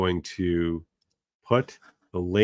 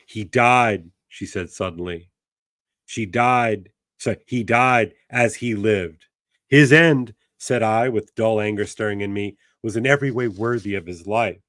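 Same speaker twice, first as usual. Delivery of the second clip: literary reading; 4 dB louder than usual. A narrator's reading. Teacher reading the novel aloud to class, measured narration. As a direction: savor each image of the passage.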